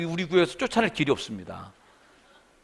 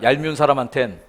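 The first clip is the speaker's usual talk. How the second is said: call and response; 3 semitones lower than usual. Shown as a demonstration. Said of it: "따라합시다".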